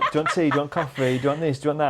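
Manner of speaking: high, laughing, overly attentive offers; eager assistant voice. Retold or imitated. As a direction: play the fussing helper, a little mocking. Mimicking eager producers' offers.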